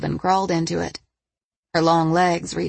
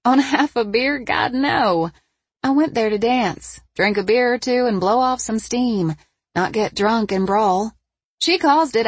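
put-on higher, heated young woman; 5 semitones higher than usual. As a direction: defend yourself, pitched up. Harper's heated denial.

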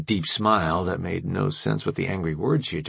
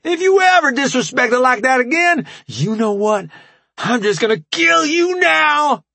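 mock anger; 7 dB louder than usual. A narrator's reading. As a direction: spit it out in hammed-up rage. Rambo's staged rage.

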